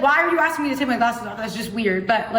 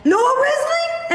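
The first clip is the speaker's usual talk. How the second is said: much higher, slow call of the name; excited recognition; 13 semitones higher, much slower than usual. Retold or imitated. Fan spotting Noah at the airport, excited high call. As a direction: call out the name as you spot him.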